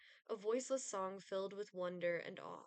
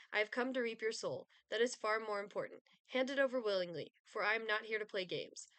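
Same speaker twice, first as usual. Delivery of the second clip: menacing Grim Reaper, growing impatient; cold rasping evil emperor; 3 dB louder than usual. Acted. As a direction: demand the soul like a bored god of death. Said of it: "Grim Reaper".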